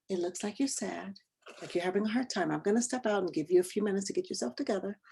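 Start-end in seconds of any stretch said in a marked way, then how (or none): 0.1-3.6 gentle. Retold or imitated. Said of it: "and I say".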